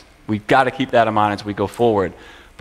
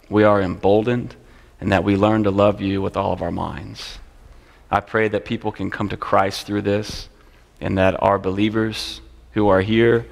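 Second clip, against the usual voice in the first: closing prayer; 2 semitones lower than usual. Acted. Closes the class in prayer.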